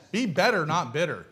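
Be better, not bitter with Be punched and bitter falling; stress on better and bitter. Shown as a demonstration. Preacher repeating the slogan to the congregation, stressing Be and not.

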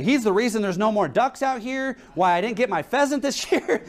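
mock-distressed complaining; worried. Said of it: "this guy's really worried about it".

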